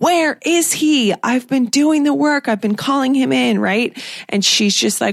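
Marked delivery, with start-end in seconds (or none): 0.0-3.6 put-on fed-up, exasperated, high-pitched frustrated scream. Retelling a fed-up character's outburst at a self-help group: imitating Charlotte screaming. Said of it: "she stands up and screams".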